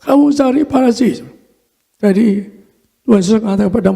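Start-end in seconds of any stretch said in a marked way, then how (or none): 0.0-1.2 mildly imitated stern order, higher pitch; lightly raised voice of command; retold loud command. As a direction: give a restrained mock command, pitched up. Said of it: "saya dengar suaranya keras".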